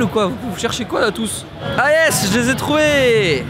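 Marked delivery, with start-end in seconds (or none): 1.8-3.4 playful eureka moment; mock triumph. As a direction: stretch out a playful victory cry. Mock triumph while joking about bees.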